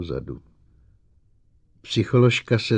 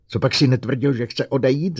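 higher and loud, roared accusation; 6 semitones higher, 5 dB louder than usual. A narrator's reading. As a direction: roar it at the robot. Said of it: "zařval Bogert".

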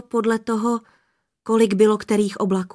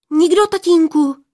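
much higher, louder hasty denial; blurted denial; 8 semitones higher, 6 dB louder than usual. Acted. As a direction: blurt it out to cover up. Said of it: "vyhrkla Poměnka". (Poměnka rychle a vysoko vyhrkne zapření)

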